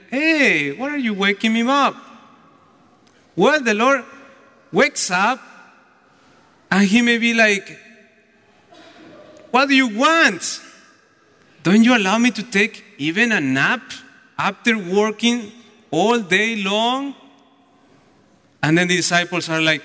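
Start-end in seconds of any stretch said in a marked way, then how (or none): 0.1-1.9 mock annoyance, quick protest; irritated. Preacher imagining being woken from a nap, irritated. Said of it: "I will be irritated". 9.5-17.1 irritated. Retold or imitated. Lord woken from his nap by disciples, irritated. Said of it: "I will be irritated".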